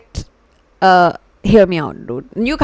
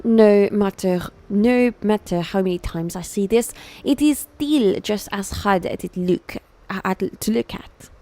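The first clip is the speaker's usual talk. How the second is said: put-on French accent; 4 dB quieter than usual. Streamer voicing Hugo at the clippings, halting French accent. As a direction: labour through it in a French accent, trailing off softer. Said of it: "I'm forgetting English because of this".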